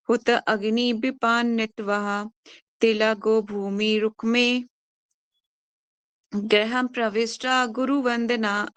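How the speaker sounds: slow, measured Sanskrit chanting of the verse; slow scripture recitation. Acted. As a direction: recite each word slowly and deliberately.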